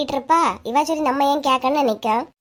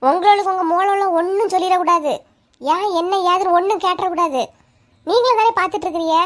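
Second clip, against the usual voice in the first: raised-pitch, aggrieved protest; indignant retort; 4 semitones higher than usual. Acted. Wife defending her scolding to husband, indignant. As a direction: argue back, pitch lifted throughout.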